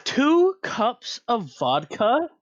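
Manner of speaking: slow, high mock Russian accent asking. Player as Sig, hammy Russian accent asking about vodka. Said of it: "Are we dealing with a Russian?".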